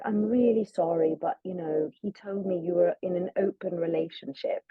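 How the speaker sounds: imitated British apology; British accent. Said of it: "she's British".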